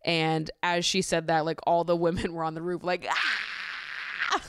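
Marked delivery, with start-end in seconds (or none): 3.1-4.4 mock squeal. Women on roof squealing.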